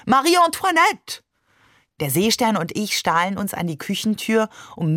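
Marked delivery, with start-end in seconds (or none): 0.0-1.2 high, melodramatic French name-calling; hammed-up stage exclamation; theatrical call. A narrator's reading. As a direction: cry it out with mock-tragic grandeur. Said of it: "rief Barbe theatralisch".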